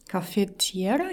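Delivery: "caffettiera" said the Italian way, kah-feh-TYEH-rah; "caffettiera" with Italian vowels and stress on tie; Italian pronunciation. Shown as a demonstration. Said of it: "in Italian, uh, the name is".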